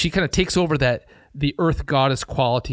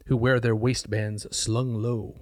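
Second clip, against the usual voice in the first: poetry reading; 2 semitones lower, 3 dB quieter, slower than usual. Shown as a demonstration. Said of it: "Nagy translates, uh, thusly".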